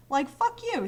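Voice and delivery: high, loud fuck you; angry outburst. Real, not acted. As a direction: spit it out in real annoyance. Outburst at the tank.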